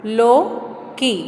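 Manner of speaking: लौकी drawn out slowly; teacher drawling लौकी slowly; slow stretched reading. Shown as a demonstration. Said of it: "चौथा चित्र".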